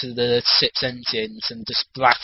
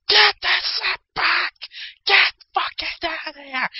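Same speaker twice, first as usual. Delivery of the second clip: high, slow hammy yelling; angry Guardians; slower than usual. Retold or imitated. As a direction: squawk like outraged elders. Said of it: "the Guardians are like".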